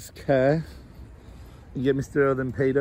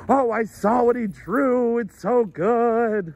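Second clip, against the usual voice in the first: mom's gushing voice; 8 semitones higher, 4 dB louder, slower than usual. Retold or imitated. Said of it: "she was just like".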